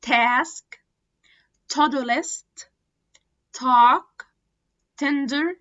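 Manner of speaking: crisp true T in each word, from "time" to "attack"; word list from "time" to "attack", every T fully released; real T. Shown as a demonstration. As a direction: drill "time, table, task" as separate words with a clear T. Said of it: "هتتنطق T".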